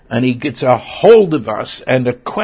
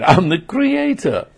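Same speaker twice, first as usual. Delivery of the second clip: high-pitched, insistent declaration; emphatic proclamation; 7 semitones higher than usual. Acted. God reminding his people who he is, emphatic.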